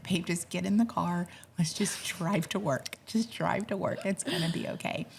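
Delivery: hushed and soothing, calming him down. Retold or imitated. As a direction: whisper it gently to settle him. Wife soothing angry husband in car.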